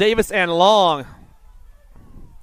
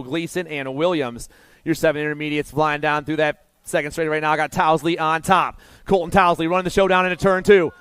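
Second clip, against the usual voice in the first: motorsport commentator. Real, not acted. Live play-by-play of race.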